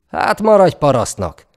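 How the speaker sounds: hangos, magas, dühös mordulás; vágd oda megvetően, haragosan; mordulva. A narrator's reading. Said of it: "mordult rá a vezér". (dühösen rámordulva)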